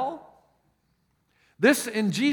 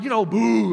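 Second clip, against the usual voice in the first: demo boo; 4 semitones higher, 7 dB louder than usual. Retold or imitated. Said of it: "I said".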